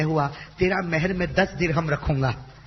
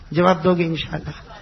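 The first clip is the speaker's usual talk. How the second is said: asked again, louder and pressing; louder repeat; 4 dB louder than usual. Real, not acted. Preacher presses the crowd for an answer, louder. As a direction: push the question harder the second time.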